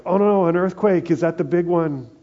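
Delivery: high, loud mock alarm at an earthquake; playing a frightened world, voice jumping up; mock panic. Pastor mimicking a panicked world during an earthquake, alarmed high voice. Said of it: "a world that's going like".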